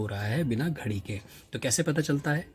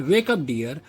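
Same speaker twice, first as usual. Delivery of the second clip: slow reading; 4 semitones higher, much slower than usual. Shown as a demonstration. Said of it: "जैसे कहते हैं".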